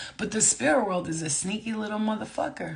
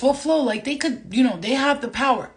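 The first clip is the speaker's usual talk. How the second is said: a light, higher, louder voice for the doubter; imagined objector; 4 semitones higher, 5 dB louder than usual. Retold or imitated. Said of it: "and you could say this".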